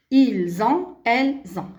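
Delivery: "ils ont", "elles ont" linked by z; liaison with z. Shown as a demonstration. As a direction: model z before each "ont". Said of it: "La même chose".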